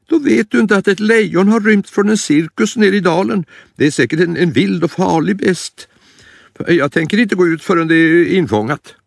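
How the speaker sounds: high, worried granny voice; frightened grandma. Acted. Grandma fearing the escaped lion, high worried voice.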